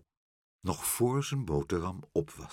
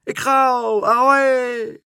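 very high, loud drawn-out squawk; screeching cry; 11 dB louder, slower than usual. A narrator's reading. Karel sets off after Pluk, screeching cry. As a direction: screech it while flying off. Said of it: "riep Karel".

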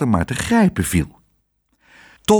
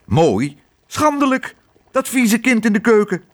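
shrill, much higher indignant outburst; outraged; 9 semitones higher than usual. A narrator's reading. The hotel lady rails at the cook about his dirty child.

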